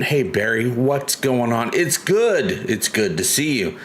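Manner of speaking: put-on light Boston accent greeting; a hint of Boston in the hello. Streamer greets chat in a light Boston accent. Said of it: "I saw you were doing your Boston accent when you started".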